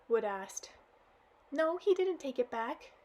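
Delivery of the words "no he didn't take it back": put-on crying girl.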